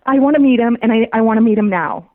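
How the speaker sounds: can't wait another second; eager demand. Retold or imitated. Urgently demanding to meet him.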